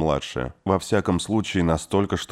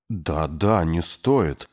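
ordinary delivery, nothing marked

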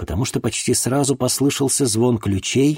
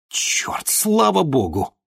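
blurted relief; 9 semitones higher, much slower than usual. A narrator's reading. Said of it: "вырвалось у меня".

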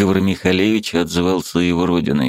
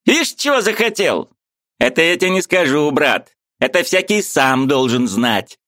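high, teasing retort; ironic; 9 semitones higher than usual. A narrator's reading. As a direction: tease him, brother-style. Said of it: "возражал с иронией".

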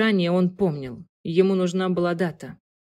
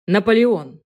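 pleased exclamation; 3 semitones higher, 6 dB louder than usual. A narrator's reading. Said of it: "с той же довольной миной".

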